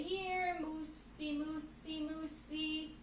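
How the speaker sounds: soft, cautious coaxing; coaxing call. Shown as a demonstration. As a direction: gently tempt the moose. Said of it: "and I'm gonna say".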